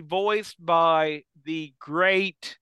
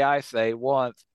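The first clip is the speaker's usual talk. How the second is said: Foghorn Leghorn voice; 4 semitones lower, slower than usual. Retold or imitated. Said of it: "I only need to say".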